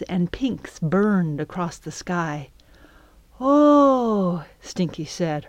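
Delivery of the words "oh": reverent. Acted. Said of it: "her voice reverent".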